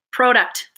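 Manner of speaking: Product with a long O, as in "pro"; Canadian pronunciation. Shown as a demonstration. Demonstrating the accent to viewers, Product with a Canadian long O. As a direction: say Product as PROH-duct. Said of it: "That's how I say it".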